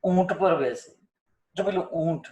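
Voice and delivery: ઊંટ with a long drawn ઊ; natural long oo. Shown as a demonstration. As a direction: hold the ઊ in ઊંટ. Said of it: "તમે શું બોલો છો?".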